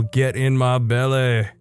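Scottish brogue. Shown as a demonstration. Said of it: "the whole".

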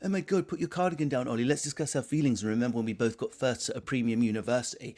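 a hint of premium-university man; mock middle-class chap. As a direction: send up a chummy, over-educated bloke. Mocks middle-class men sharing feelings.

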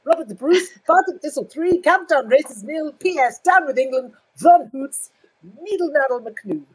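high, loud hammed-up Scottish brogue; mock Scottish accent. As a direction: bellow it like a caricature Scotsman. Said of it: "what he says is".

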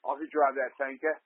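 lightly voiced, understated action-hero impression; Mel Gibson. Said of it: "it's more like, um".

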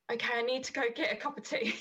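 quick, laughing retelling of being overwhelmed; laughing disbelief. Retold or imitated. Retelling her shock at the reading, laughing quickly.

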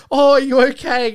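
imitating worried actor. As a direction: fuss over the kid in a high voice. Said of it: "He's like".

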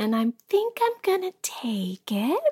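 timid, hesitant little voice; sheepish. Retold or imitated. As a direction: sheepishly admit it, like the mom. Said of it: "in this most sheepish voice I've ever heard her use".

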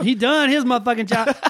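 Black Southern accent, pitch up a bit; African American accent. Shown as a demonstration. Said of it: "There's my black voice".

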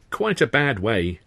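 drawn out slowly with false pity; slow, sorrowful-sounding repetition; slow mock sympathy. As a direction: linger on each word. Sid repeating, slow.

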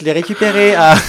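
high, loud, bubbly tutorial host voice; Instagram influencer. Pretend. Mocking an Instagram influencer's tutorial, bright and loud. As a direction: play a cheesy influencer selling a product. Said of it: "Le mec, il est hyper premier degré, de cette façon influencée d'Instagram".

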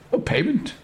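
a hint of an alarmed elder asking; lightly voiced surprised Grandolph. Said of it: "says Grandolph".

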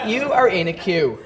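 like an automated customer line; phone menu voice. Retold or imitated. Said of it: "and your liver would go".

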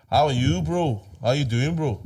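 mimicking someone trying to sound European; lightly mocked European accent; put-on European accent. Imitating Nigerians who try hard, put-on European accent. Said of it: "try to really sound, like, very, you know, European".

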